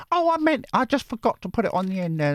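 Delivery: high pretend reply from the viewer; lightly voiced viewer; squeaky viewer voice. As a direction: put on her voice, sliding back down. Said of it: "You didn't type".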